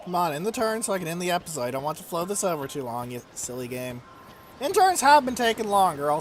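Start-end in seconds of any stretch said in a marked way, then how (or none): 0.0-4.0 impatient grumble. Real, not acted. Impatient at slow turn.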